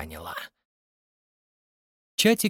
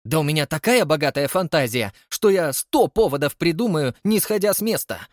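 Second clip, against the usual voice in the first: high, louder theatrical outcry; wailing; 5 semitones higher, 3 dB louder than usual. Acted. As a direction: proclaim it grandly. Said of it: "возопил Холли". (громкий театральный вопль)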